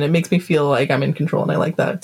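breathy close-mic whisper dropping low; sexy voice. Acted. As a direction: purr it right into the mic. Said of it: "Speaking really close to the mic in a very sexy voice".

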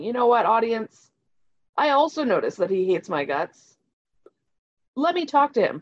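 hiccuping through the words; with hiccups. Real, not acted. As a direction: speak between small hiccups. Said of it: "Sorry, I have hiccups".

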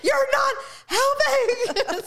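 high, very slow tearful wail; crying at husband to stop helping; sobbing. Retold or imitated. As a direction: drag it out while crying.

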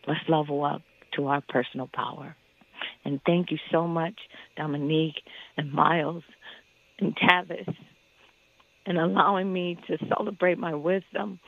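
emotional, breath catching between words; catching breath midword. Real, not acted. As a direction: let the breath catch mid-phrase. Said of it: "I'm crying because I am happy".

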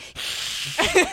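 imitated possum hiss. Podcaster imitates a possum walking up, hissing.

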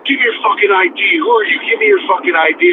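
half-voiced irate barking; mock angry yell. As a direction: imitate a man yelling orders. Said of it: "And he's yelling at me".

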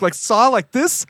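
high, slow puzzled mimic; puzzled, miming sawing; imitating friend. She imitates her friend asking about saw, slow and puzzled. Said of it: "She's like".

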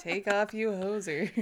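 a hint of a Canadian accent; dad's hoser line, lightly voiced; imitating dad. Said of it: "he called us hosers".

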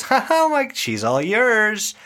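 slow, drawn-out handover on the last words; retold stranger's greeting. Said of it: "somebody opens the door and says".

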